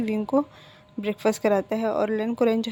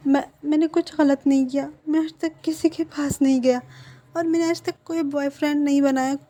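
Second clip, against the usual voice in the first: higher, pleading, slowed in places; tearful begging; 4 semitones higher than usual. Acted. Frightened partner begging his husband not to divorce him, tearful. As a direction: beg through tears not to be left.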